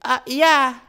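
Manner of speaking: mock grudging "yeah"; grumpy lady. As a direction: shrug it off like a rude driver. Voicing the lady on phone.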